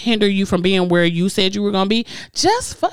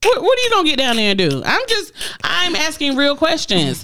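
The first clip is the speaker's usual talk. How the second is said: incredulous rant; 6 semitones higher than usual. Real, not acted. Ranting about date's excuse.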